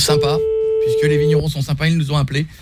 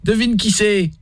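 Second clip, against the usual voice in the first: prank caller in a put-on Midi accent, pitched up; southern French accent; 4 semitones higher, slower than usual. Prank caller to Thérèse, fake Midi accent. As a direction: sing the Midi twang while asking her to guess. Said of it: "l'accent du Midi".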